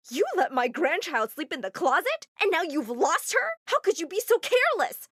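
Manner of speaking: mother scolding daughter for losing grandchild; mad grandmother. Acted. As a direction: scold your daughter harder each line. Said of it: "she was so mad at me".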